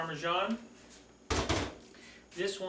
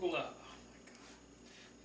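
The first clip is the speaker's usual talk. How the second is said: breathless slow whisper of awe; awed whisper; 11 dB quieter, much slower than usual. Real, not acted. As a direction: whisper it, amazed. Admiring the finished pizza.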